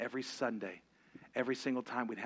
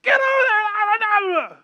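fast, screaming order, much higher; drill instructor yell; 19 dB louder, faster than usual. Retold or imitated. Drill instructor yelling at the recruit, screaming order. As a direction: bark it like a drill sergeant. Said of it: "they'd say".

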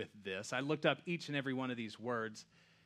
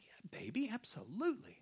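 tender dad reply; 10 semitones higher than usual. Retold or imitated. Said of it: "I'm like".

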